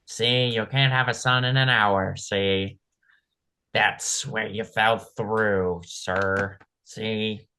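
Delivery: slow mobster drawl ending in "see"; gangster voice. Acted. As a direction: lean on every "see" like an old mobster.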